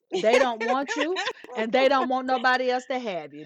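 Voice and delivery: a hint of a wise old grandmother; grandmama voice. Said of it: "in my grandmama voice".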